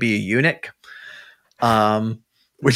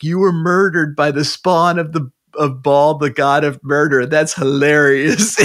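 amused demon; 4 semitones higher, 5 dB louder than usual. Retold or imitated. Demon taunting the murdered priestess, high and gleeful. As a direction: gloat over the dead girl like a laughing demon. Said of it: "the demon is hilarious".

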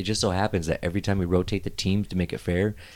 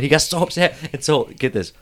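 ordinary delivery

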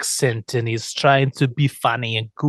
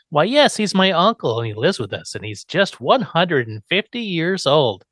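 higher, sweetly matter-of-fact; chirpy niece; 4 semitones higher than usual. Acted. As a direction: explain it brightly, stretching the age. Acting Marilyn's chirpy explanation.

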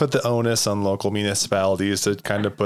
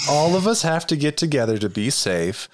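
lightly hushed, calming politician voice; a hint of a soothing official speaking; library voice. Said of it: "I like your library voice".

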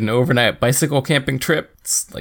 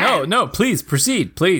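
exasperated; 5 semitones higher, slower than usual. Real, not acted. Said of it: "You sound a little exasperated".

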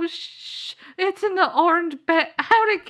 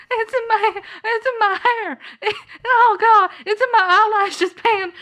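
disgusted squeal; 6 semitones higher than usual. Acted. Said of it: "glad no one could see that".

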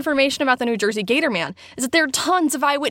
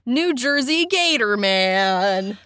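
slow, drawn-out announcement; dramatic reveal; much slower than usual. Acted. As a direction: draw out the big reveal. Game show reveal.

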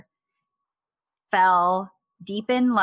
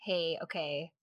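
much softer, hesitant mock protest; half-hearted objection; 2 semitones lower, 10 dB quieter than usual. Flustered man telling her to stop, softly half-hearted. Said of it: "Even the way that he tells her to stop".

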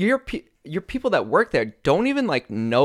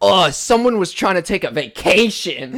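higher-pitched imitation of griping coworkers; mock accusing; 5 semitones higher, 4 dB louder than usual. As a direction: mimic a coworker's pointed complaint. Mocking accusing co-workers.

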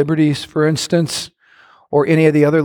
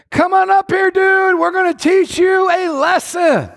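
mocking taunt; 12 semitones higher than usual. Acting Philistine taunt.

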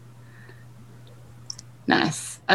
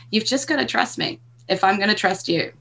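lovingly; 3 dB quieter than usual. Acted. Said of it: "I'm lovingly saying".

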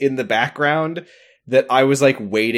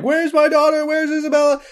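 mock yelling. Boat Dad yelling at guards for his daughter, high mock yell. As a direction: holler it like a frantic father at the guards. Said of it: "like, yelling at them".

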